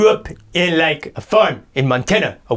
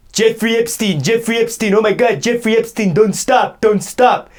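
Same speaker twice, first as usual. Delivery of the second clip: higher, breathy-free mock bedroom moans of a woman; mock moaning woman; 4 semitones higher than usual. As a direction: ham up a woman crying his name in bed. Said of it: "Imagine that".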